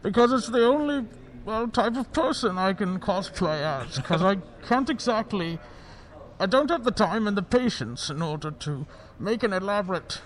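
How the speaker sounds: Bane voice. Acted. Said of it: "putting on the Bane voice".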